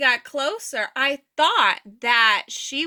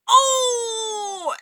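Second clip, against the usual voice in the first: high exclaimed oh of shock; onlooker gasp; 10 semitones higher than usual. Retold or imitated. Onlookers on the street gasping high at the fall. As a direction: gasp as if you just saw her fall.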